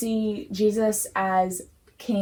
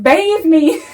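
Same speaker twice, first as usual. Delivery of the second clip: higher and louder, hammed-up eagerness; mock-excited demand, pitched high and loud; eager Peter plea; 7 semitones higher, 10 dB louder than usual. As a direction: play Peter suddenly begging for a full bath. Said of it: "And Peter's like".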